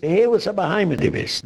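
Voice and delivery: mimicked insult. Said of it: "Du suchst das so".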